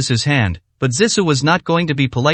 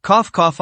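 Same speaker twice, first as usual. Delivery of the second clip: coughing; 4 semitones higher than usual. A narrator's reading. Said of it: "making Zissou gasp for breath".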